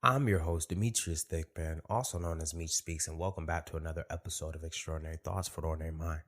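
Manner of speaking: slight lisp from a swollen tongue. Real, not acted. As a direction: talk around a bitten, swollen tongue. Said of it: "If it sounds like I got a lisp, it, I bit my tongue".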